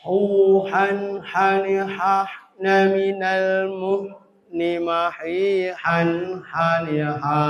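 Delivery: measured "hu, han, hani, ha" with drawn-out vowels and airy h; throat ha drill. Shown as a demonstration. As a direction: chant "hu, han, hani, ha" syllable by syllable for pupils. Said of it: "kurang nekan". ("hu, han, hani, ha" dilafalkan berirama)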